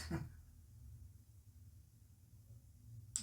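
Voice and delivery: soft, breathy chuckle; rueful laugh. Acted. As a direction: let out a quiet, voiceless little laugh. Rueful laugh at own slip.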